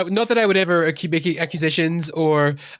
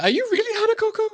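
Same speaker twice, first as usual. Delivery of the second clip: awed question; faster than usual. Acted. Cleric asks in awe.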